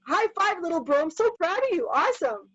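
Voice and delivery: acted brotherly delight; proud cheering. Acted brother cheering his sibling.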